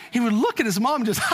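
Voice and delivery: bright imitated baby giggle, high; imitating baby laugh. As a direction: mimic the baby laughing at his hiccups. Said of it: "he would start laughing".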